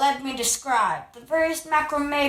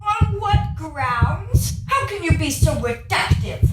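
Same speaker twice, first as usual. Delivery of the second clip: indignant challenge; 2 semitones higher, 3 dB louder than usual. Acted. Indignant yarn argument.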